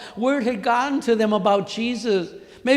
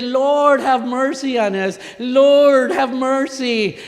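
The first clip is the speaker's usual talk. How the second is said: higher, much louder cry of Lord; yelling; 3 semitones higher, 5 dB louder, slower than usual. Retold or imitated. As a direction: shout it out desperately to the Lord. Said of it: "they yelled".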